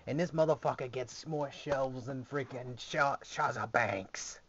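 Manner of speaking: a lightly voiced grumbling brother, mock complaint; half-hearted whiny sibling rant about shelves; mock jealous brother griping; imitating brother. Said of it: "brother's probably contemplating going".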